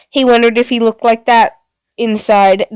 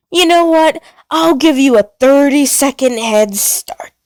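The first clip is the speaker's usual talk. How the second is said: high, teasing menace; playful robot villain; 4 semitones higher than usual. Acted. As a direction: toy with them like a predator. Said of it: "Pluto suddenly hummed".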